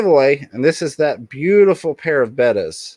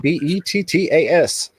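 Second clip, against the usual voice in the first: spelled out; 6 semitones higher than usual. Shown as a demonstration. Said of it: "the hashtag is".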